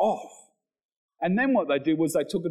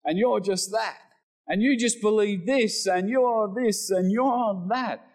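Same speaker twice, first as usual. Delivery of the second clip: mocking voice; 5 semitones higher than usual. Preacher imitating the world mocking believers. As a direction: mimic the scoffers lightly. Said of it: "they say things like".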